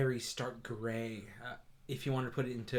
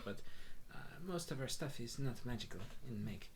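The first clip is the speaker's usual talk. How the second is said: Moon the Tabaxi shopkeeper. Acted. Moon answers the customers.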